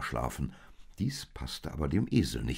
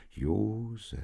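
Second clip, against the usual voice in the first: voiced, raised call to a sleeper; mildly urging him to listen; admonishing; 5 semitones higher than usual. A narrator's reading. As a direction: call the name as a gentle warning. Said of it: "mahnte der Engel".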